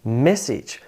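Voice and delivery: "Message" stressed as MESS-ij; front-stressed "Message"; first-syllable stress. Shown as a demonstration. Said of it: "with emphasis on that first syllable".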